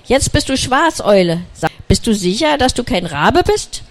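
a lightly voiced high, playful tease; teasing amazement. The Mumpf teasing the owl who looks like a raven, pitched high. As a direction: marvel at the black owl, high.

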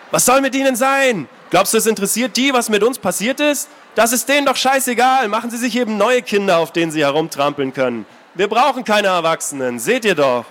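put-on boy lashing out about his parents; wütend aufbrausend; bitter outburst. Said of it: "Eric fuhr auf".

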